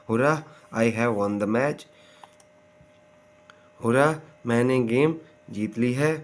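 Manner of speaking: lightly cheering hooray; a touch of victory joy; mild excited cheer. Shown as a demonstration. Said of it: "ये होगी rising intonation क्योंकि इसमें हैरानी".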